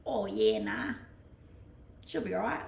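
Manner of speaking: lightly put-on Aussie slang; terrible Aussie accent. Shown as a demonstration. Streamer trying Aussie phrases for viewers, mock Aussie accent. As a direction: have another try at a broad Aussie accent. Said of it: "That was a terrible Aussie accent".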